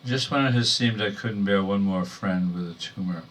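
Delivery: title set apart, then the verse; measured recital to an audience; poetry reading. Acted. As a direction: announce the title, pause, begin the poem. Reads poem, title first.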